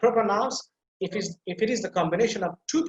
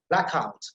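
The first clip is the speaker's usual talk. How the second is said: blackout with the weight on OUT; stress on second word. Shown as a demonstration. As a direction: lean on OUT in blackout. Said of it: "the second one will be a stress".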